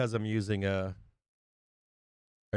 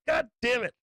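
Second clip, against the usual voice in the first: mock exasperation; 12 semitones higher, 3 dB louder than usual. Frustrated subscriber missing the move.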